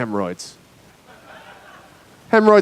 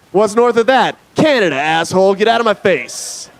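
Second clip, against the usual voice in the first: raised-pitch mock irritation; testy local; 5 semitones higher than usual. Vegas local dismisses a questioner, mock testy. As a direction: brush the questioner off, dragging the last words.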